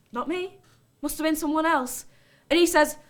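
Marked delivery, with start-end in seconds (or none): 0.1-2.1 feigned innocence. Acted. Denying punch to old bloke.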